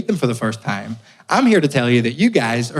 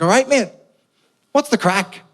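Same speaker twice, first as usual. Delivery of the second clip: cheery greeting; 9 semitones higher than usual. Retold or imitated. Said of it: "I was like".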